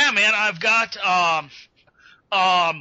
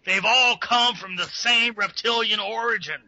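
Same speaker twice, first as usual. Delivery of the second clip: conspiracy host voice; 2 semitones higher than usual. Acted. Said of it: "David Icke's kind of thing".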